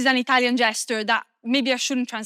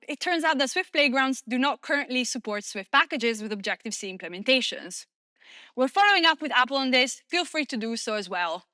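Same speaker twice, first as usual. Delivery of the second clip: deadpan. Shown as a demonstration. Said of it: "I'm gonna read it on a deadpan voice".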